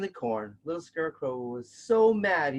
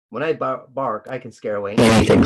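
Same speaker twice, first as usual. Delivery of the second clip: loud, lower proud dog; 5 semitones lower, 8 dB louder than usual. A narrator's reading. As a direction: boast like a big farm dog. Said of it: "said Farm Dog".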